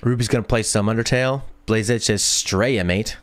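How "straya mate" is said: a light mock Aussie accent on "Straya, mate"; Australian accent. Reading a viewer's comment in a light Australian accent. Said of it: "Do you mean straight?".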